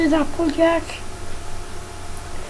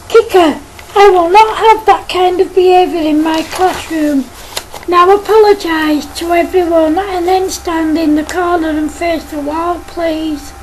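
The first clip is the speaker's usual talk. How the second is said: stern teacher. Acted. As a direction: scold the pupil firmly but lightly voiced. Teacher scolds Kicker.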